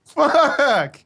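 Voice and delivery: sudden high yell; shouted curse. Real, not acted. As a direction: blurt it out loud. Reaction to bad dice roll.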